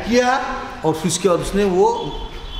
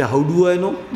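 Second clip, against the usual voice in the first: innocently; much slower than usual. Retold or imitated. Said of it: "मैं भी बड़ा innocently".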